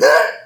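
short mock yelp of alarm; panicked yelp. Worker hears he is fired, imitated panicked yelp.

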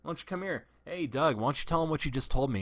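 daring him to repeat it; mock challenge. Calling Doug over, retold.

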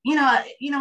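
high, loud burst of you know; animated high you know; excited. Real, not acted. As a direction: pop up with sudden emphasis. Sudden excited interjection.

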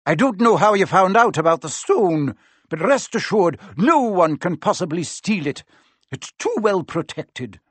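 a lightly voiced stern professor; firm professor. A narrator's reading. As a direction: shut the matter down firmly. McGonagall firm.

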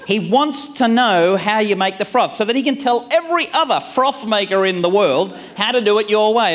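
lightly hammed-up exasperation; exasperated plea. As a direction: spell it out with weary sarcasm.

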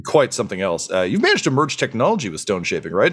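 lightly voiced eager gnome scholar; a hint of a chatty gnome scientist; eager science gnome. Gnome scholar flattering the dwarf chief, lightly eager.

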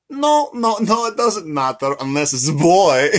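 slow down into the punchline, breaking into laughter; cartoonish, high-pitched fretting; Despicable Me quote. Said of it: "my favorite quote from Despicable Me".

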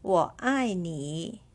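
我爱你 said slowly; slow model. Shown as a demonstration.

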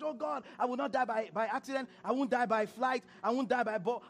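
mocking, over-eager prayer voice; mock frantic prayer. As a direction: parody of a panicked believer. Mocking fearful churchgoers' prayers.

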